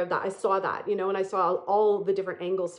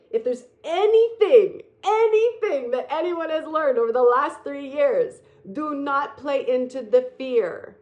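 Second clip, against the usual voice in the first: urgent emphatic plea; 4 semitones higher, 5 dB louder than usual. Real, not acted.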